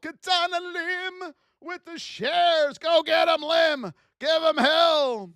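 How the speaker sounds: high, slow ring-announcer call; announcer shout-out. Real, not acted. Streamer hyping a viewer's shares, high and slow. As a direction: introduce them like a fighter entering.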